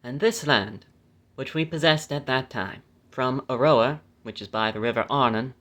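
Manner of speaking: measured, phrase-by-phrase Bible reading; scripture reading. Acted. Reading the law's land grants to listeners, measured scripture reading. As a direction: read the verse out deliberately, stressing key names.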